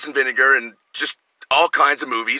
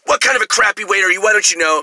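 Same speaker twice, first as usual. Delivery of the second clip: mild mock scolding; 6 semitones higher than usual. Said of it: "He goes".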